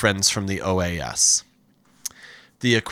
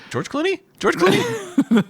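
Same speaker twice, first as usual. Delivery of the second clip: starstruck double take. Pretend. Mistaking him for Clooney.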